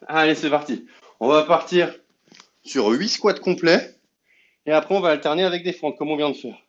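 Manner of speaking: loud, driving workout instructor; fitness coach. Acted. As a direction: pump the class up as you count. Leads a squat workout.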